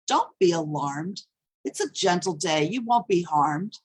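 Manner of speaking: understated reassurance in a poem; lightly voiced soothing, falling to rest; mildly soothing. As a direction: quote someone trying to calm you, evenly stated. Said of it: "Stop trying to soothe me".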